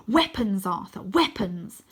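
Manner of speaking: a touch of urgent calling; urgent shout. Acted. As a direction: call out urgently to your friend.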